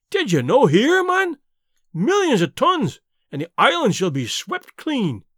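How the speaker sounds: Davy yells at Donald about the flood; frantic outburst. Acted. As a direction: shriek it at him in alarm.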